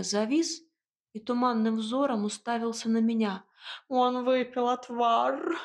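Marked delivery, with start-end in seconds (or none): 3.9-5.6 медленно, жалобно скулит; кот в отчаянии скулит; отчаянное скуление кота. A narrator's reading. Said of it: "в отчаянии проскулил кот". (отчаянно проскулить, медленно)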